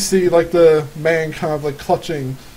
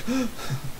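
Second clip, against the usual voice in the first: gasp; 7 semitones higher, 9 dB quieter than usual. Acted. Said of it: "Lisa is kind of, like, running behind you guys".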